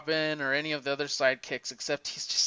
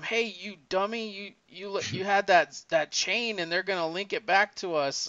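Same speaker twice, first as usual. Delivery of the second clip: higher-pitched retold scolding, only mildly heated; lightly acted scolding, pitched up; mock yelling; 4 semitones higher than usual. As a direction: imitate a crook telling off his partner, without really shouting. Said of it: "he started yelling at him".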